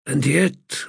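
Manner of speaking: firmer, rising with conviction; firmer wondering. Acted. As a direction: lean into the repeat. Repeated with more force.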